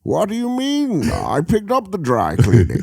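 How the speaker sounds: sitcom Bane. Acted. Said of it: "see Bane in a multicam".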